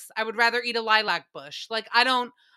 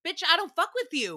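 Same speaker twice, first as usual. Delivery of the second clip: quoting a rapper's lyric; 7 semitones higher than usual. Retold or imitated. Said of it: "Listen to a rapper".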